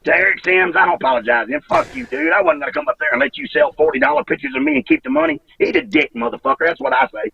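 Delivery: real fed-up rant, often pitched high; angry rant. Real, not acted. Wrestler cursing out those who kept his money, angry. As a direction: vent your resentment without shouting.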